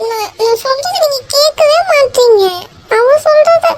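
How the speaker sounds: high tearful wail. Acted. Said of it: "இப்ப எதுக்கு நீ அலற?".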